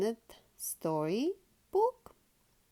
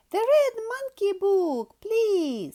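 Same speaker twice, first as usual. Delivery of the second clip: eager high request; 11 semitones higher, 6 dB louder than usual. Acted. Peppa asks eagerly.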